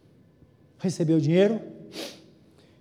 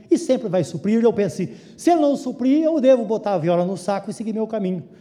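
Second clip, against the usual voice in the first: louder, building sermon voice, pressing each promise home; fervent preaching; 2 semitones higher, 4 dB louder than usual. Acted. Pastor rallies his congregation about God's provision, building fervent preaching. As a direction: preach it with growing conviction.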